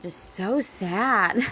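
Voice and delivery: drawn out, very slow and heavy; slow, saddened echo of the phrase; slow sad repeat. Real, not acted. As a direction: let each word sink, slowly. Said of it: "this is just so sad".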